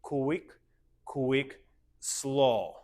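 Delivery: dance step count. Shown as a demonstration. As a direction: count the steps through to slow. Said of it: "So we go".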